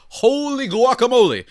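high, loud burst of amazement; excited exclamation. Real, not acted. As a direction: blurt it out, astonished. Exclaims at Dodgers depth.

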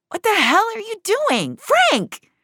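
high, loud startled cry at Frank; sudden loud panicked shout on waking; alarmed shout. Acted. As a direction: yell out in shock, voice shooting up high. Finch wakes to gun pointed.

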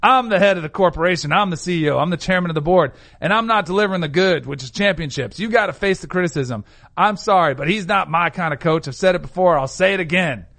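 put-on grumpy old man voice; lightly voiced grumpy old man. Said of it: "Do your old man voice".

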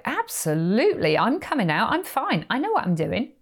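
high, breezy brush-off; mock-confident reassurance; defiant insistence. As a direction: wave off the worry, cocky and bright. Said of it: "was my reply".

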